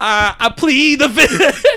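laughing. Real, not acted. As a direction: laugh through the words. Embarrassed admission, laughing.

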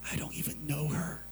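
hushed realization to himself; inner thought. Retold or imitated. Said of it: "I was thinking in my head".

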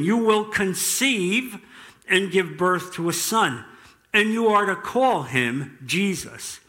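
measured, deliberate scripture reading; solemn public Bible reading. A narrator's reading. Reads the angel's words aloud.

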